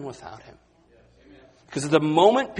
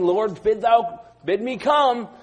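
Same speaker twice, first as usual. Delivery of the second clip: Peter's plea; 6 semitones higher, 3 dB louder than usual. Retold or imitated. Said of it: "as he's saying".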